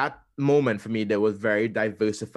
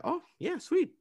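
mock delight. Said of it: "And I was like".

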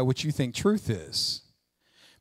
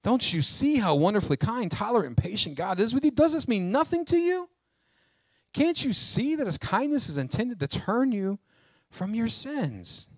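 tender pleading; 6 semitones higher than usual. Acted. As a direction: implore them without force. Repeats the gentle pleading verse.

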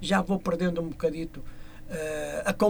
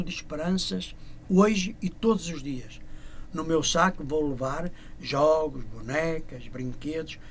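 slow, measured verse delivery; poem recitation; 2 semitones lower than usual. Acted. Singer as Father Christmas promising gifts to children, poem recitation. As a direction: recite line by line with pauses.

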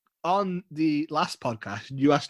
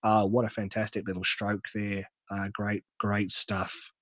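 tentative Australian podcast-host voice; Australian accent; 3 semitones lower than usual. Shown as a demonstration. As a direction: attempt an Australian accent, losing confidence as you go. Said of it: "there's my Australian accent".

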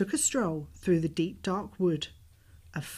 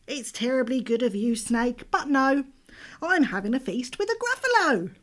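quick little mouse voice; 5 semitones higher, 4 dB louder than usual. Acted.

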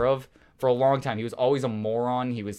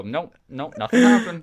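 higher, louder hammed-up denial; mock denial; 5 semitones higher, 8 dB louder than usual. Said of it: "I just sit there and go".

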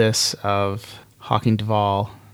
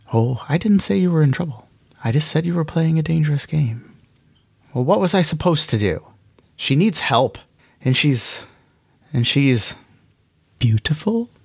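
higher, playful voice picking at him; teasing inner voice; 4 semitones higher than usual. Acted. Monarch teasing Hawking about the woman, higher and playful. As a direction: tease him like a sly companion.

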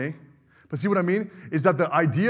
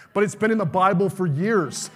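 rising preaching climax; 2 semitones higher than usual. Real, not acted.

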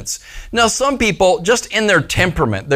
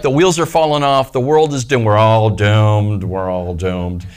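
doom-laden pessimist; 6 semitones lower than usual. Retold or imitated. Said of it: "the person that's like".

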